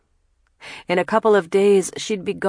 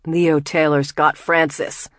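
a louder urgent cry, not full scream; 4 dB louder than usual. Acted. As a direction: call it out in alarm, held back. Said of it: "Jamil screams".

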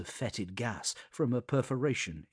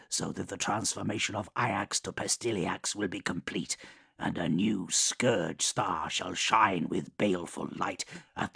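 measured, menacing warlord voice; Mortarion voice; 2 semitones lower than usual. Acted. Mortarion explains his plan.

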